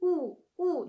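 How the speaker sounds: exaggerated rounded ooh; too strong u. Shown as a demonstration. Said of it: "that's too much".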